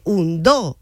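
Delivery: "un" leading into an accented "dos"; stress on DOS. Shown as a demonstration. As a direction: land the accent on "dos", drawn out after "un". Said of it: "ahí está el acento".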